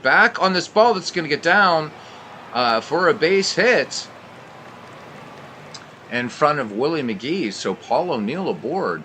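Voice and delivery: excited sports commentator calling it; play-by-play. Acted. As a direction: call the action like a broadcaster. Calls a baseball game play-by-play.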